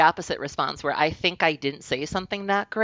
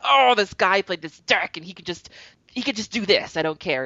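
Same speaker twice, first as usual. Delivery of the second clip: mock angry rant; 5 semitones higher than usual. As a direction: act out going off about an opponent. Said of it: "record you going off on these people".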